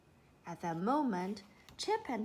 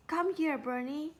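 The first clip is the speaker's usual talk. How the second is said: louder, higher urgent call; 6 semitones higher, 3 dB louder than usual. A narrator's reading. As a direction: call the dog back. Calling the dog back.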